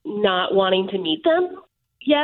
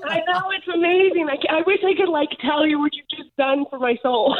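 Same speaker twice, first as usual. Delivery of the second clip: tearful; 3 semitones higher than usual. Real, not acted. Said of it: "Me too".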